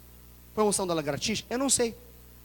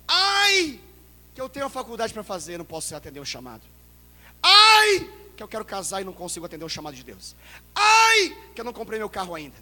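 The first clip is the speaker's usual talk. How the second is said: mock whining; 7 dB louder than usual. Preacher mocking worldly excuses. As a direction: whine petty excuses. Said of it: "ele não fala assim".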